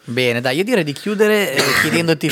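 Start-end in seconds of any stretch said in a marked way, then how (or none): 1.5-2.3 coughing mid-sentence; chesty cough. Real, not acted. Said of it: "Scusate la tosse".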